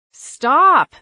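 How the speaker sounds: loud, high sudden stop; sharp command. Acted. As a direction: shout to break up the fight. Narrator halts a fight.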